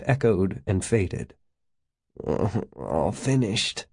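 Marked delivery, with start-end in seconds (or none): 2.2-3.9 soft, slow snicker; quietly amused, with a little laugh first. A narrator's reading. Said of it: "Gates snickered".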